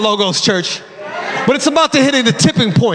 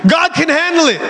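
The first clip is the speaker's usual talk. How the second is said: exhorting; 5 semitones higher than usual. Real, not acted. Preacher exhorts congregation after climax.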